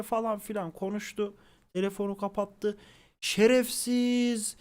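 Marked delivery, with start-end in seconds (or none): 3.2-4.6 mother scolding her son, pitched higher; angry mother. Retold or imitated. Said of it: "ama nasıl sinirli, bas bas bağırıyor". (annenin taklidi, hafif yüksek sesle öfkeli azar)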